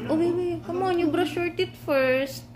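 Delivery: put-on sweet-talking a kid into the bath; coaxing a little one. Retelling someone coaxing the child.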